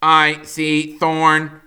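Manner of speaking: slow, loud calling out; robot shout. A narrator's reading. Roz shouting that she spots the cub, loud. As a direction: call out clearly to the bears. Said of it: "shouted Roz".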